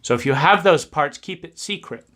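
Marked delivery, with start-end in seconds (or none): 1.2-2.1 very soft, secretive near-whisper; hushed secrecy. Acted. Telling the child to hide those parts, hushed. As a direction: drop right down as if confiding.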